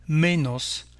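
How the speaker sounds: menos slowly, stressed on ME; Spanish menos with the accent on "me"; stress on second-to-last syllable. Shown as a demonstration. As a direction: say a slow ME-nos, leaning on "me". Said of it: "comme pour les voyelles l'avant-dernière syllabe".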